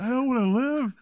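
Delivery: high, hammed-up wail; overacted high-pitched cry of misery; mock despair. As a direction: wail it melodramatically, way over the top. Over-the-top despair acted out.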